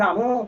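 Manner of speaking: रामू with a rounded vowel added to Ram; pet-name ending on रामू; affectionate vowel change. Shown as a demonstration. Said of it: "जब हम क्रोध में होते हैं या फिर प्रेम में".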